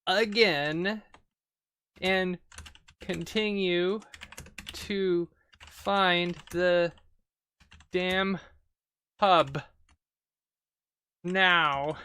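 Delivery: slow, word-by-word dictation with gaps; halting, spaced-out typing voice; dictating while typing. Real, not acted. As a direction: read out each word as you type it. Types commands aloud.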